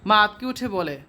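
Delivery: measured storytelling read, voicing mother and daughter lightly; story narration. Teacher reading the story to the students, steady narration. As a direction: read the tale aloud to the class.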